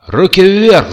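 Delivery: громкая команда высоким голосом; заорать, как грабитель. A narrator's reading. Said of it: "заорал Кертис". (грабительский окрик во всё горло)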